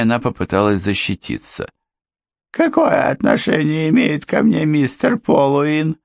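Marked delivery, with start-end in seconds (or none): 2.5-6.0 high, guarded question; defensive housekeeper. A narrator's reading. Housekeeper defending herself before Ford, mildly defensive. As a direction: try to deflect, pitched up.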